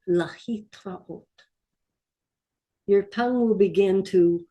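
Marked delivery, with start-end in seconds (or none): 0.1-1.2 a little faster. Shown as a demonstration. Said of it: "get it a little faster".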